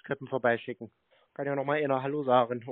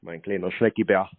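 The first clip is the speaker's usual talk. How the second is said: lower, slow teasing pet names; sarcastic lover's murmur; mock cooing; 7 semitones lower, slower than usual. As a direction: drag the sweet nothings out mockingly. Baiter coos pet names at hold line.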